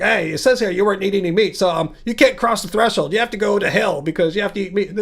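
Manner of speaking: hint of a put-on angel voice, quick; angel accent. Angel sending a vegan to hell, lightly done angel accent. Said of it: "Did you guys like my angel voice there?".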